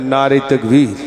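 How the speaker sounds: loud cry of তাকবীর; shouted call to the crowd; takbir call. Real, not acted. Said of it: "একটু তকবীর জোরে দেন".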